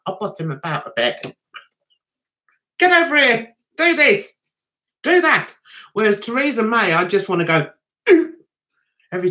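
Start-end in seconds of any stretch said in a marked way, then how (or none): 2.8-5.5 bossy orders. Pretend. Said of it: "I can boss him about".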